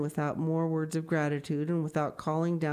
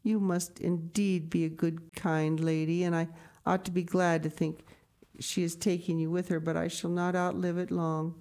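a little sadly. Acted. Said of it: "said a little sadly".

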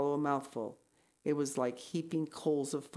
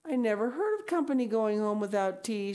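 mildly plaintive, higher voice; mournful; 5 semitones higher than usual. Acted. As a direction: lament it with a touch of pleading. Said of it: "she mourned".

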